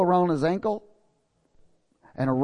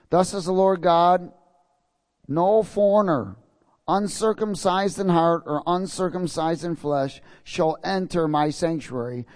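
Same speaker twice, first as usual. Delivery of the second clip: scripture proclamation; 2 semitones higher than usual. Acted. Reads God's decree from scripture.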